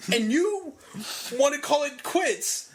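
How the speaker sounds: high-pitched, incredulous scolding; exasperated disbelief; indignant challenge. Real, not acted. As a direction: demand it as if confronting the quitter. Indignant rant at injured wrestler.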